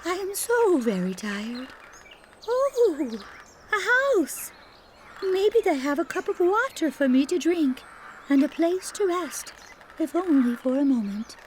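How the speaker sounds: put-on high, breathless young princess voice; tired girl finding a house; weary Snow White.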